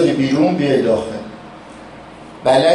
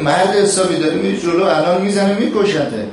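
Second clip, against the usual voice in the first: higher, urgent call to the careless fighter; raised, pitched-up mock alarm; urgent warning; 6 semitones higher than usual. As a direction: warn him sharply that he'll be killed. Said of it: "گفت".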